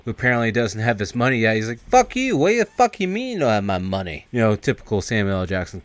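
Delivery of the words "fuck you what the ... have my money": mock angry outburst, starting very high; pissed off. Card player demands money owed, acted-out anger. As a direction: imitate an irate card player, high then easing. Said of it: "is all pissed off".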